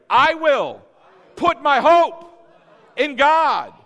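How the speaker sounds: shouted, high-pitched declaration with breaks; like we mean it. Shown as a demonstration. Preacher urging the congregation to repeat after him, shouting with conviction. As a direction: belt out each phrase with full conviction. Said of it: "let's say it like we mean it".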